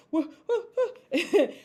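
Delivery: high, hammed-up flustered whoops ending in a laugh; mock panicked noises. Showing how she reacts to missing funds, mock panic noises. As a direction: act out a comic panic, then laugh. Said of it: "I'm freaking out".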